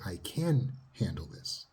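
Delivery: slow, steady and assured; calm self-assurance. Shown as a demonstration. Therapist showing self-talk, slow and steady. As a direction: say it slowly like you believe it. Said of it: "you have to say".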